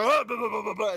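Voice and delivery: loud, high gibberish yell; mock screaming. Ruffians screaming as they enter the hallway, mock gibberish yell. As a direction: imitate incoherent screaming. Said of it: "they were screaming it".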